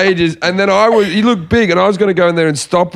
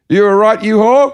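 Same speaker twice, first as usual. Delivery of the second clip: high, cheeky call through a doorway; jokey concern, pitched up; mock checking in; 7 semitones higher, 3 dB louder than usual. Storyteller re-enacts checking on barista friend, high cheeky concern. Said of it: "put my head in the door and said".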